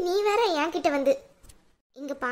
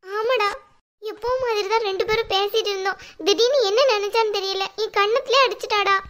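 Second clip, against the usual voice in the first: raised, wailing put-on grievance; tearful complaint; 3 semitones higher than usual. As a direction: play the wronged, crying mother. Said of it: "அழாதீங்கம்மா, ப்ளீஸ்மா".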